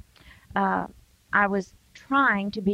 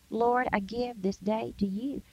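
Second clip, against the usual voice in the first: quiet short prayer; 7 dB quieter than usual. Shown as a demonstration. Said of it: "You've got four seconds".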